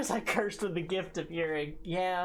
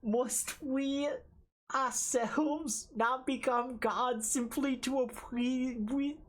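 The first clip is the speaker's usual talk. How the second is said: put-on cutesy baby talk. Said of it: "Uwu voice?".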